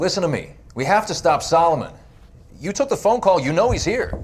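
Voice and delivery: pleading, high and pressing; desperate push to be believed; urgent. Acted. Urgent plea to interrogators.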